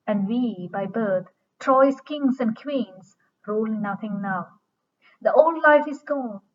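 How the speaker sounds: dramatic verse reading. Acted. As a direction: declaim the lament line by line, pausing between phrases. Reads the play's verse aloud.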